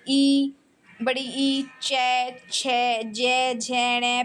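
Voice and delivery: palate letters "चै, छे, जे" said one by one; sounding out letters. Shown as a demonstration. Teacher demonstrates palate sounds for students to try. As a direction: spell out each sound clearly. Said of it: "ये आप बोल के देखिए".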